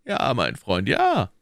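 mock-fatherly, feigned kindness. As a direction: reassure him like a father. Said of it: "mit dem väterlichen Tone". (väterlicher Ton)

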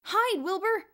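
high, loud urgent cry; urgent exclamation. A narrator's reading. Chris urgently shouts to Wilbur to hide. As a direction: warn a friend to hide. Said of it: "exclaimed Chris".

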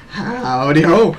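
drawn-out cartoon howdy; Christmas poo greeting. Streamer correcting greeting to a viewer, cartoonish. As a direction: swoop through a hyper cartoon hello. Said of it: "like the Christmas boo in South Park".

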